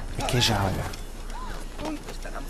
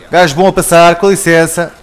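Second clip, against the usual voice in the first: swaggering call; 2 semitones higher, 6 dB louder than usual. Acted. Calling out to clear the path.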